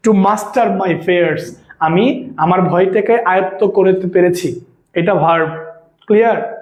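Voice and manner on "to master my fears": slow dictation. Shown as a demonstration. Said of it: "teacher reads example sentence".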